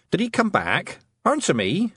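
high, demanding worry; urgent. Acted. Mother demanding news of missing Wentworth, urgent. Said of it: "her mother asked urgently".

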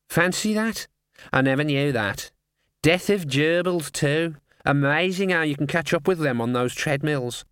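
high chatty bird voice; raspy cawing crow. Acted. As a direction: chat like a curious raven. Raven chatting with rat.

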